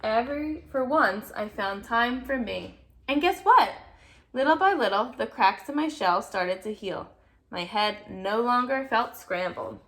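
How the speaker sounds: put-on lively read-aloud to a child; storybook reading voice; story narration. A narrator's reading. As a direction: read it like a bedtime picture book. Reading picture book aloud.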